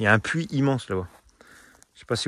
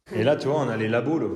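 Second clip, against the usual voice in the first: echoing room. Real, not acted. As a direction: voice echoing in an empty hall. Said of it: "Ça résonne énormément ici".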